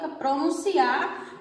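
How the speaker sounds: pronunciar said slowly, each syllable apart; teacher sounding out pronunciar syllable by syllable. Shown as a demonstration. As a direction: spell out pronunciar slowly for the class. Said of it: "você pode separar a sílaba".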